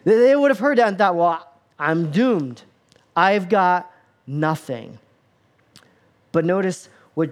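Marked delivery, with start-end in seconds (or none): 1.1-5.0 slow, drawn-out doomed resignation; mock despair. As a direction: play a hopeless listener, stretching each word. Imagined listeners despair at the verse.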